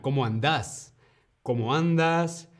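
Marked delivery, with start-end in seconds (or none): 0.0-0.9 Argentinian, stress on the last syllable of "andás"; Argentinian voseo. Shown as a demonstration. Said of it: "O en Argentina".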